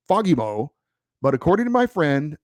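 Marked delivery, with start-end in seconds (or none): 0.1-0.7 Fagemo with a light Swedish lilt, rising at the end. Shown as a demonstration. Host showing how a Swedish person says it, light Swedish lilt. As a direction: say Fagemo lightly lilted, as a Swede might. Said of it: "Swedish person with that European lilt in their accent".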